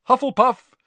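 loud, high announcement; shouted proclamation. A narrator's reading. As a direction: shout the verdict to the hall. Hat proclaims house.

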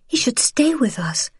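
pleading whisper. A narrator's reading. Wife pleading with her husband, whispering.

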